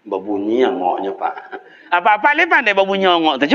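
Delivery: ordinary delivery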